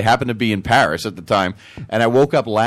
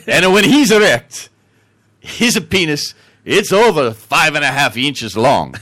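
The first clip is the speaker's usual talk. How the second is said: put-on slow, rising, louder Italian accent; 3 semitones higher, 4 dB louder, slower than usual. Italian guy bragging absurdly about his son, Italian accent. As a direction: build the boast as a stage Italian. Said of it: "the Italian guy is like".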